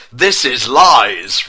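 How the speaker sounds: hammed-up roar, loud and slow; drawn-out comic roar of denial; angry roar. A narrator's reading. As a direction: bellow it slowly in mock fury. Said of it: "roared Garfield with angry voice".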